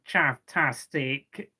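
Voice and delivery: put-on slow, drawn-out broad London accent; mock London accent. Quoting commenters on a singer, in a lightly mocked London accent. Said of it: "'cause of a really broad London accent".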